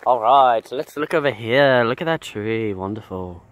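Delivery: hushed, admiring nature-documentary narration; lightly hammed wildlife presenter; nature show host. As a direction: marvel at every tree like a TV naturalist.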